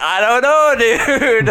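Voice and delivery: high, loud nervous hesitation; hesitant. Retold or imitated. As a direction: back away from the offer. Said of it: "I'm like".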